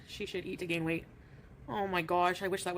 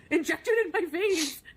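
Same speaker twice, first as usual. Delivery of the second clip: laughing; 10 semitones higher, 6 dB louder, slower than usual. Real, not acted. Joking about gravy refills.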